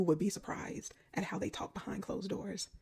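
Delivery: a conspiratorial whisper; whispered aside. Real, not acted. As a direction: lean in and whisper it.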